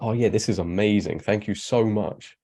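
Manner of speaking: drip with fake thanks; sarcastic oh yeah, thank you so much; sarcastic gratitude. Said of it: "I'm like".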